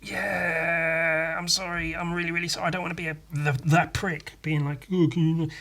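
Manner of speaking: whimpering, half-crying sorry; hammed-up weepy apology to a friend; playfully faking tears while apologising; mock tearful apology. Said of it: "I was like".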